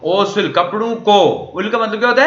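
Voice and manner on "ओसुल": "ओसुल" with the final consonant carried over as an s into उल; linked final consonant. Shown as a demonstration. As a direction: run "ओसुल" together as o-sul. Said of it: "तो ये ओस पड़ा जाएगा".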